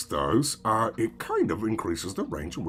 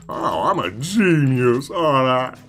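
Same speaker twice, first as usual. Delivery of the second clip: put-on louder, higher bragging kid voice; boastful child; 5 semitones higher, 8 dB louder than usual. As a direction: brag like a kid seeking praise from mama. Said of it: "Maybe stop talking like that".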